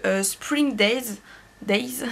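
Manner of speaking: slow, careful French-accented song title; labouring over an English song title with a French accent. Real, not acted. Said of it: "excusez-moi pour mon accent".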